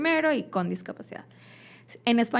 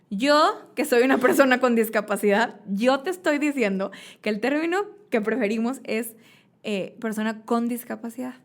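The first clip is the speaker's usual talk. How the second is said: firm insistence; 3 semitones higher, 5 dB louder than usual. Retold or imitated. Retells correcting someone firmly.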